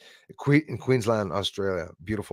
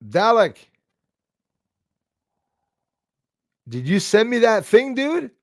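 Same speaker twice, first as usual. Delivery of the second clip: raised, high-pitched call to a viewer; calling out, yelling; 11 semitones higher, 3 dB louder than usual. Real, not acted. Streamer hollers to a viewer about a thing sent, calling out. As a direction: holler a question into the microphone. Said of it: "I didn't mean to yell in the microphone".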